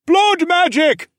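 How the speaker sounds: high, slow, furious yell from the crowd; angry yell. Acted. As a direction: shout it out in accusation. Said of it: "a man yelled from the crowd".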